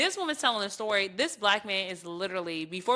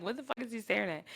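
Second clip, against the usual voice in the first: muttered aside; 3 semitones higher, 7 dB quieter, faster than usual. Retold or imitated. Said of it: "I'm, like, laughing 'cause I'm like".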